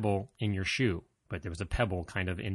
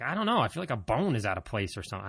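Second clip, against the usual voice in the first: confused reply; 3 semitones higher than usual. Retold or imitated.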